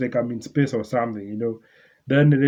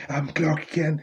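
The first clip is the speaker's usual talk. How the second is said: mock Clark Kent voice; 3 semitones higher, 5 dB quieter, slower than usual. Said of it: "Metaro is watching this N-word just".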